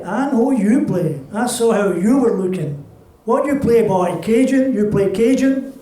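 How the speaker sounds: lightly voiced older woman holding court; a touch of a proud old accordion player; old accordionist woman. Accordionist questions the boy.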